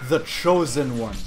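lightly voiced grand villain; slow, pompous self-announcement; Darth Vader. Player announcing himself to foes, grand villain voice. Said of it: "Darth Vader, Lord of the Sith".

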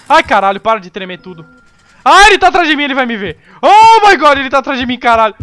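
high, loud frightened yelling; panicked screaming. Real, not acted. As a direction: scream in real panic as it chases you. Monster chasing, screaming in panic.

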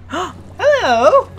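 high delighted greeting; a gasped high hello to the music; surprised hello. Real, not acted. Gamer greeting the new level music, high and surprised.

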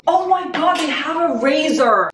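high-pitched, drawn-out delight; thrilled discovery. Real, not acted. Vlogger spotting hotel freebies, thrilled. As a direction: squeal over a lucky find.

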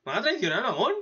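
hammed-up "where is he?" questioning; puzzled character asking. Recapper voices a character chasing an unanswered WhatsApp, mock puzzled complaint. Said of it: "El tío se pregunta".

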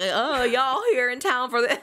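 slow, dumbed-down mock Southern accent. Emily Blunt mocking the Chili's waitress, slow mock Southern accent. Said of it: "just making her sound so, like, dumb".

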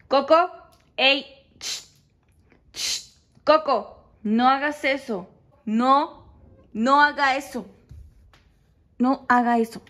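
controlled scolding of a pet; short, firm orders with pauses between; scolding command voice. Real, not acted. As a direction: correct the rabbit firmly without shouting. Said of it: "tengo mi voz cuando lo estoy regañando".

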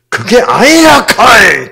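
loud, high, slow Gyeongsang protest; Gyeongsang dialect. Shown as a demonstration. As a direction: burst out in emphatic Gyeongsang dialect. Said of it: "경상도 사투리로 하면 어떻게 돼요?". (크고 높게 내지르는 경상도 사투리)

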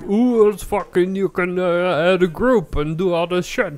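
high, slow, gushing; excited friends voice. Retold or imitated. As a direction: gush like a hyped-up crowd. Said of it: "And then everyone, like, moved".

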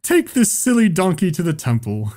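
high, shouty, hammed laughter; over-the-top cruel cackling; mocking stage laugh. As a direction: jeer gleefully at the donkey. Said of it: "people on stage are like".

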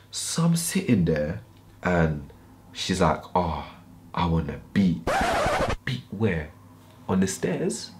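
soft, half-whispered retelling; hushed. Retold or imitated. Narrating her quiet request, hushed and soft. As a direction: drop it down low and soft.

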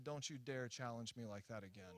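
a hint of a quiet, stern God warning; small voice. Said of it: "this little small voice said".

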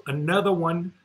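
hyped hip-hop hype-man shout; celebrity DJ voice. Retold or imitated. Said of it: "in my D J Khaled voice".

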